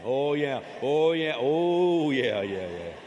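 loud, knowing oh yeah; mock realization. Pastor acting a praying listener suddenly remembering, loud. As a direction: act out faces popping up.

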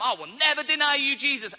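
loud, high, impassioned declaration; fervent vow. Retold or imitated. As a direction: swear it aloud with all your heart. Peter's fervent vow, acted again.

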